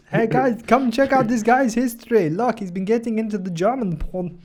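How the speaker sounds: high, loud call to colleagues; hammed-up calling everyone over to look; mock summoning shout.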